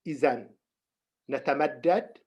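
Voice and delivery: slow, measured instructions with long pauses; unhurried meditation teacher, pausing often; guided meditation. Real, not acted. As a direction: guide them into the posture slowly, phrase by phrase.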